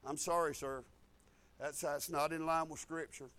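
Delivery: low, soft polite refusal; quiet, apologetic firmness; subdued correction. Acted. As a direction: gently correct someone, voice held down. Acted gentle correction of someone.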